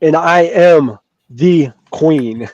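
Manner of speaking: slow, drawn-out diva declaration; lightly hammed-up rock star queen; mock rock singer. Friends laughing on a gaming stream, imitating a singer slowly. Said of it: "Freddie Mercury going".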